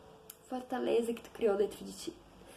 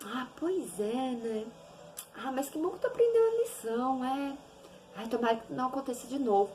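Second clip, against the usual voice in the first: polite distant reply; 4 dB quieter than usual. Retold or imitated. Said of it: "se é outra pessoa".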